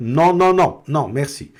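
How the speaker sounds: brusque, curt, harsh, loud delivery. Showing how to turn away someone who insists, curt, harsh refusal. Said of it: "seja um pouco mais, é, mais ríspida mesmo".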